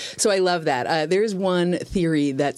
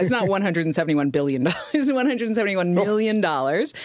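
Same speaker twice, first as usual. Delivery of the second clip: laughing; 3 semitones higher than usual. Real, not acted. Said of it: "I was gonna say".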